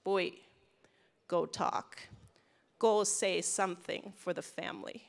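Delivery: put-on a light Thai English accent, firm command; hint of a Thai English accent, ordering his son up. Dad urging his son to speak at the hearing, light Thai English accent. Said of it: "in his beautiful Thai English accent".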